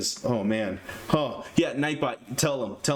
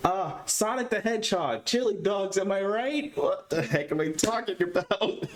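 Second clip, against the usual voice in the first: mock polite host; 6 semitones higher, slower than usual. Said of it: "be like".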